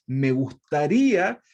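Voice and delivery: slow, pointed sarcastic jab, a touch angry; mock-angry apostle, half-sarcastic; angry sarcasm. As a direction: lean on it slowly like a biting joke. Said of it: "les dice enojado".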